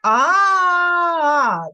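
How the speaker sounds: a long, open, sustained A; drawn-out A sound. Shown as a demonstration. Teacher demonstrates A sound for child, long and open. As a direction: hold a wide-open A. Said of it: "А ну давай з тобою разом скажемо".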